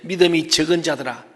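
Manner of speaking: mild, restrained reproof; somewhat gentle. Acted. Preacher quotes Jesus chiding disciples, somewhat gently. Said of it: "조금 부드럽게 하고".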